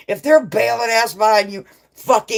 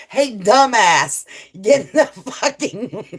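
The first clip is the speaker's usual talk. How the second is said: higher, louder mock scolding; mock yell; 3 semitones higher, 4 dB louder, slower than usual. Streamer acting out Sunnyside's driving advice, mock yell. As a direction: imitate a bossy heckler, breaking into laughter. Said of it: "See, Sunnyside".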